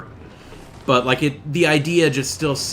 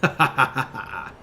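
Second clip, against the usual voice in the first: lightly voiced villain. Villain brother threatens his sister, mildly gloating.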